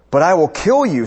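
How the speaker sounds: lightly acted emperor's menace; threatening emperor. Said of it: "the emperor threatened him".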